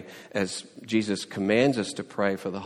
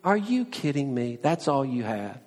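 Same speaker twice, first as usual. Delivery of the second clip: mocking disbelief; 5 semitones higher than usual. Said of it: "Elijah didn't just laugh and say".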